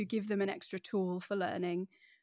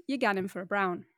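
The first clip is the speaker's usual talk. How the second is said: light Geordie accent, louder; 5 dB louder than usual. Shown as a demonstration. Host asks guest to order a beer, Geordie accent. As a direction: ask for a pint the Geordie way. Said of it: "put on your old accent".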